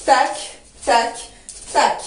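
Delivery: short, separate "tac" beats with pauses; evenly spaced dance cues; spaced rhythmic beats. Shown as a demonstration. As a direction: tap out the rhythm with the voice. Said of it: "ça va faire boum".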